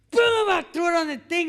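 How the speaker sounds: big shouted sound effect; loud boom. Retold or imitated. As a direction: throw the word down like the chips. Slamming chips down, retold.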